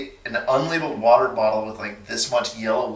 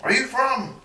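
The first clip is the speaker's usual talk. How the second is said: put-on old Cuban man; 12 semitones higher, 3 dB quieter than usual. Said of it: "he's like".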